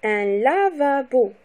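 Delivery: "lavabo" slowly split la, va, bo; syllable by syllable. Shown as a demonstration. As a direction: break "lavabo" into three clear syllables. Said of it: "le découpage syllabique".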